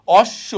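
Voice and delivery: অশ্ব as osh-sho; doubled consonant. Shown as a demonstration. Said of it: "দুইবার উচ্চারণ হবে".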